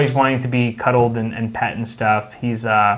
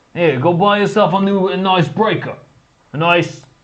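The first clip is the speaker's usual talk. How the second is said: put-on italian mobster accent, pitched up; 7 semitones higher, 3 dB louder than usual. Trying out a line again after asking how to do it; Italian mobster voice. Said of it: "How do you do Italian mobster?".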